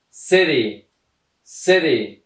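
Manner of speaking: "سری" begun with an S sound; careful teacher demo of "سری" with initial S; soft C as S. Shown as a demonstration. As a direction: say "سری" as a model word, C pronounced like S. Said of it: "صدای سی نداده".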